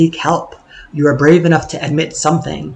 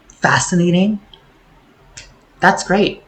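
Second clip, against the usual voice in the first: mock whisper; 3 semitones higher than usual. Mocking praise of quirky illness.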